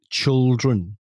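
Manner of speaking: put-on "children" drawn out as CHUL-dren; chul pronunciation. Shown as a demonstration. Showing co-host the word Becca howls at, "children" as CHUL-dren. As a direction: say "children" with a dull "chul" first syllable. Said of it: "I'm pronouncing it C H U L".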